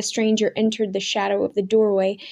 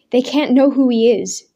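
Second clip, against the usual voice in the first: urging; 3 semitones higher, 5 dB louder than usual. Acted. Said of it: "Daniel urged".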